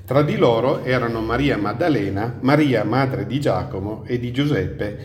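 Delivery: measured, solemn Bible reading; scripture reading. Acted. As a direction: read the Gospel aloud to a congregation. Reads scripture aloud.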